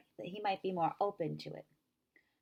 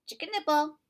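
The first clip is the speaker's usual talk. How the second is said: loud high outburst; tic shout; 10 semitones higher, 7 dB louder than usual. A narrator's reading. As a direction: burst out with the tic.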